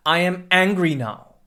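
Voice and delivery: "now" falling down at the end; falling statement tune; downwards inflection. Shown as a demonstration. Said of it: "we have a downwards inflection".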